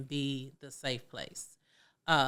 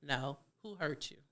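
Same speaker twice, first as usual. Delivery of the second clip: softer, caring question; gentle asking; 6 dB quieter than usual. Shown as a demonstration. Parent asking a hurting child, soft and caring. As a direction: ask it tenderly. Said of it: "That's what you need to be answering".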